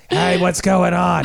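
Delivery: slow grumpy Grinch-like voice, lightly done; a hint of a grouchy troll; trollish Grinch. Host teasing guest about her stressed mood, slow grouchy Grinch voice. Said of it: "like a trollish Grinch kinda attitude".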